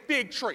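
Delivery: "fig" emphasized ahead of "tree"; stress on fig. Shown as a demonstration. Preacher coaching congregation to repeat it, stress on "fig". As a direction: lean on the word "fig" in "fig tree". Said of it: "I want you to emphasize the word fig".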